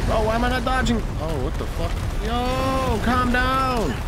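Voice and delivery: loud, high, frustrated yelling; real frustration at a boss wrecking everything; frantic yelling. Real, not acted. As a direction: shout at the chaos on screen. Frantic during chaotic boss fight.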